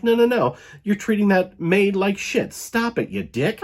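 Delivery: mock scolding. Evie scolding the butler for treating the maid badly, mock indignant. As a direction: put the butler in his place. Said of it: "she's like".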